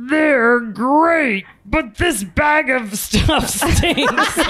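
high, slow booming cartoon tiger; hammed-up cereal mascot, grossed out; Tony the Tiger. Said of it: "Tony the Tiger".

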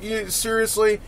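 high, disbelieving "seriously?"; mock disbelief at the Yankees fans; incredulous. Retelling his reaction to Yankees gear, high disbelief. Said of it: "I'm like".

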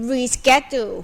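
American reschedule, "ree-SKED-joo" with hard sk; American variant of reschedule; American pronunciation. Shown as a demonstration. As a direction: say reschedule in American English, ending on a light -joo. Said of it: "มันออกเสียงได้หลายแบบ".

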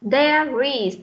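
"there is" joined, R flowing into is; teacher's linked model "there is"; linked sounds. Shown as a demonstration. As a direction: link the R of "there" onto "is". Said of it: "Chúng ta cũng nối âm tiếp nhá".

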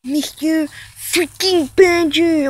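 slow, mocking stretch of the name; Mister Badger. Vlogger mimicking how a rival says his name, mocking. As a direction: draw the name out in mild ridicule. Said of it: "how did you say your name again?".

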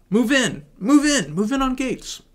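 high, loud barked order; shouted command. Acted. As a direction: yell the order to charge. Agents ordered to attack.

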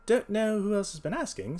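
high, loud, casual detective. A narrator's reading. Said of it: "said Holmes casually".

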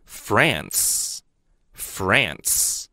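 France said very slowly and clearly twice; teacher's model word. Shown as a demonstration. Teacher to students, very slow careful model. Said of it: "法国英文就叫France".

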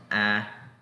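"A" as in accurate, mouth open; demonstrated wide "A"; open A sound. Shown as a demonstration. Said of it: "Vean la posición".

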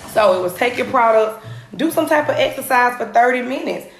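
panting after the workout; winded, catching breath between words. Real, not acted. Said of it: "And I'm out of breath".

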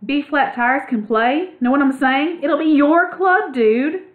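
mean every word, building up; earnestly. A narrator's reading. Ragweed earnestly pitching the new club to Clutch. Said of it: "Ragweed said earnestly".

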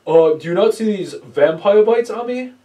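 a hammed-up proud yell; boastful shout. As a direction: show off the hickeys loudly. Friend bragging in the retold scene.

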